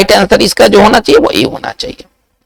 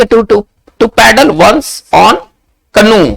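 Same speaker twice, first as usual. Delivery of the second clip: slow dictation; much slower than usual. Shown as a demonstration. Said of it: "इसका उच्चारण हम लोग ऐसे करेंगे".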